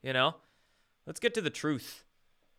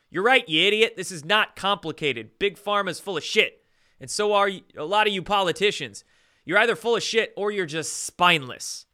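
angry rant; 4 semitones higher, 5 dB louder than usual. Real, not acted. Ranting at politicians.

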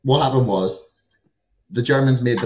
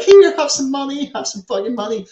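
mock generous handout; 12 semitones higher, 5 dB louder than usual.

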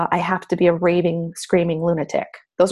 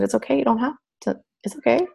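comforting; 5 semitones higher than usual. Retold or imitated. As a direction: soothe the child gently. Parents comforting crying daughter.

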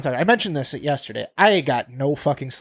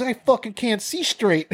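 put-on blackout drunk; 8 semitones higher, slower than usual. Acting wasted after strong gin.

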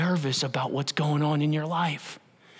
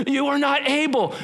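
voice of lies; 7 semitones higher than usual. Acted. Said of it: "Don't listen to the lie".

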